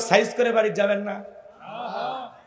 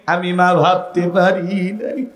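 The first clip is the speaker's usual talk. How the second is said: wailing, sing-song lament of a hurt mother; a grieving mother's chanted complaint; mother's tearful plea. Acted. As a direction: plead with your son through tears, rising to cries. Mother pleads with ungrateful son.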